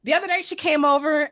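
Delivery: normal talking voice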